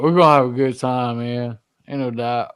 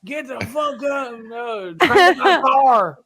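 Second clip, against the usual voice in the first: loud sharp voice; 9 semitones higher, slower than usual. Retold or imitated. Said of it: "you be tired after you heard".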